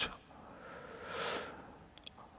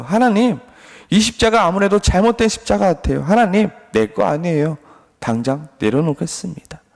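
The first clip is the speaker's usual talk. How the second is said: higher, aggrieved complaint to God; Job complaining; 4 semitones higher than usual. Acted. Job protests his cross to God, mock aggrieved complaint. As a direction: whine up at heaven like a wronged man. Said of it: "불평과 원망을 하고 있습니다".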